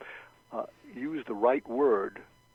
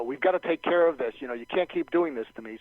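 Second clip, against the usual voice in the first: upset customer raising their voice in complaint; raised voice; 2 semitones higher, 5 dB louder than usual. Acted. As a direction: act out an emphatic, pleading complaint. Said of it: "when they raise their voice, that's inflection".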